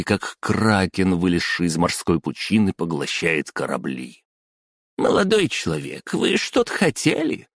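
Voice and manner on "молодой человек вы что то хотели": high squeaky bossy woman. Acted. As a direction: squeak it out like a petty clerk. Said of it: "своим писклявым голосом".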